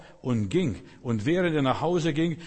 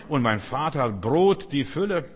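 emphatic proclamation; 3 semitones higher, 5 dB louder than usual. Acted. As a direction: proclaim it like a promise. Preacher voices son's hope. (laut und verkündend)

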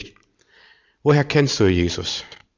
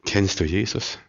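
low-key, softened appeal; soft, probing; quiet searching question; 3 semitones lower, 7 dB quieter than usual. Real, not acted. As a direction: bring the volume down and ask earnestly. Question repeated after aside.

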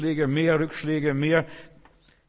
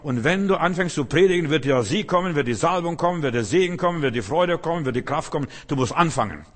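energisch gereihte Verheißungen, höher und lauter; eindringlicher Zuspruch; 4 semitones higher, 4 dB louder than usual. Retold or imitated. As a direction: den Zögernden mit Nachdruck antreiben. Zitierter Zuspruch, sich steigernde Aufzählung. (eindringlich anfeuernd)

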